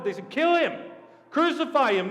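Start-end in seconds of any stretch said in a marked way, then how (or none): 0.3-0.9 high, loud cry for blood; crowd shouting. Acted. Mob calls to Pilate for Jesus' death, shouting high. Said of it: "the crowd shouted for Jesus' blood". 1.3-2.1 high, forceful mob shout; crowd shouting. Acted. Crowd demands Jesus' death from Pilate, shouting high. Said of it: "the crowd shouted for Jesus' blood".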